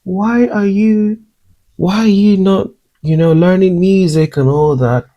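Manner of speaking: a hint of an impressed man praising a voice; impressed neighbour. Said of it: "And he goes like".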